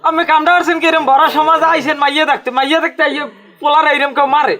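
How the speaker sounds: high, urgent remonstrating; agitated protest. Acted. Relative objecting to a son being beaten at a bride viewing, agitated. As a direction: plead indignantly to stop the beating. Protesting the beating before hosts.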